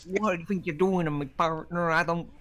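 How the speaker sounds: put-on cowboy American accent. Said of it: "trying to be an American".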